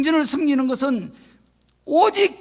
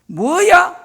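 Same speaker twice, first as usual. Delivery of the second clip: indignant outburst, higher and louder, building to a shout; angry king; 6 semitones higher, 5 dB louder than usual. Acted. Offended king raging at the priest who told him to leave, angry. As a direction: act out an enraged king, rising to a loud threat. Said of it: "화를 내버리고 말았습니다".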